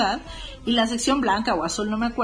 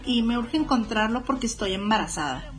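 lightly voiced grown-up mistress; put-on older voice. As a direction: pose lightly as an older woman on a prank call. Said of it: "fingía la voz y hacía voz como de más grande". (voz levemente fingida de mujer mayor)

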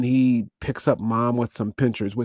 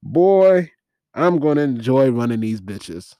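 put-on loud punchy "Boy", then gleeful; mock tough madam relishing it; quoting Mom's line; 4 dB louder than usual. Mom gloating to her goons, mock tough. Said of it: "Mom has the best line of movies, the movie, when she says".

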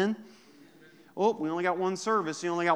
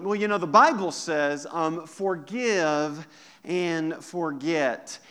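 mock know-it-all quote. Shown as a demonstration. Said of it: "Eh, wrong".

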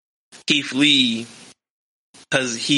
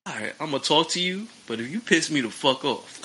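much softer, fast, calm and quietly menacing; calm threat; 6 dB quieter, faster than usual. Retold or imitated. Hosts imitating Keith Lee, a calm voice hiding a threat. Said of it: "he has that voice".

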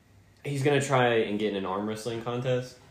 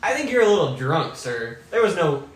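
put-on Schwarzenegger accent; 7 semitones higher, 5 dB louder than usual. Minotaur in a tavern argument.

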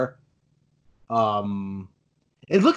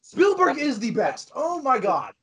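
screaming crying fan; 6 semitones higher than usual. Real, not acted. Gushing fan over favorite movie.

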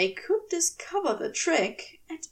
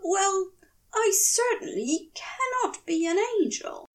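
higher, frantic Aziraphale; 9 semitones higher than usual. A narrator's reading. Aziraphale panicking among demons, higher and frantic. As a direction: rush it in a panic.

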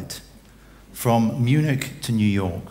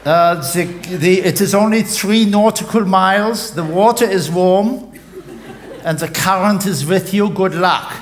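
much higher, louder loudspeaker announcement, laughing through it; captain in a boat addressing the stranded passengers; 9 semitones higher, 5 dB louder than usual. Acted. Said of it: "he has a loudspeaker".

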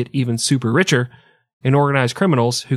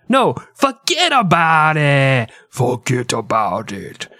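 put-on Russian accent; 2 semitones higher, slower than usual. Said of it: "the Russian guy's like".

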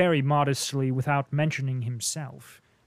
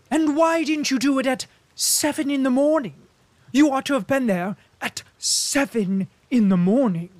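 higher, louder playful rebuke; teasing diplomat, raised voice; lightly mocking Bilbin; 10 semitones higher, 8 dB louder than usual. A narrator's reading. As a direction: scold him with a smile.

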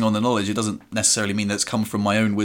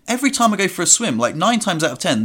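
higher, hurried mock complaint; retold exasperation; 7 semitones higher than usual. Swimmer replays fuming over the changing room, exasperated. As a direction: grumble it with rising pitch, acting out annoyance. Retelling his swimming pool grumble.

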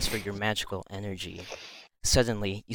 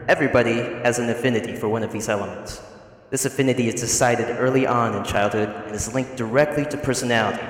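teacher lecturing; 6 dB louder than usual. Acted.

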